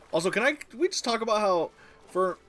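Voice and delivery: high, incredulous rising voice; can you believe this; excited disbelief. Real, not acted. Amazed at character's hairlessness.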